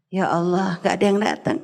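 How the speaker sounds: menirukan keluhan sedih yang tertahan; low, mildly sad lament, retold. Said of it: "sedih dia". (keluhan sedih, nadanya rendah)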